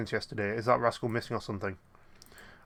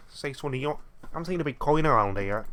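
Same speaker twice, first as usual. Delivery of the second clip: a bad, higher Scouse accent for an old man; terrible Scouse accent; 4 semitones higher than usual. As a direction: put on a clumsy Scouse accent. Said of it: "that's a terrible Scouse accent".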